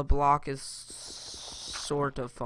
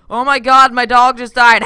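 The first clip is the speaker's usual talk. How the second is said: mock fake laugh; 8 semitones higher, 17 dB louder than usual. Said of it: "they always fake laugh".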